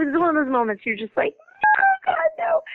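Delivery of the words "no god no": high, strangled "no, God, no"; mock horror. Mother recalling her son's harmonica, mock horrified wail. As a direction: squeal it out in dread.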